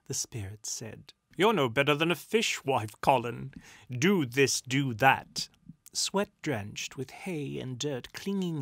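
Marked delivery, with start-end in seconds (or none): 1.4-5.5 loud grumbling retort; bantering complaint. A narrator's reading. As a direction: holler back at a nagging friend. Shouted banter up to hayloft.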